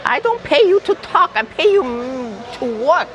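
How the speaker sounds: high bossy bark; barking tyrant boss. Pretend. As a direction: scold like a stingy boss. Mock boss scolding worker.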